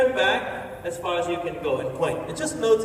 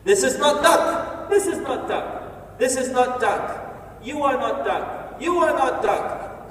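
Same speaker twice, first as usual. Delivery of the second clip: slow, deliberate deadpan; frase lenta y marcada; 5 semitones higher, slower than usual. Acted. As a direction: spell it out slowly like a joke. Repeated deadpan punchline.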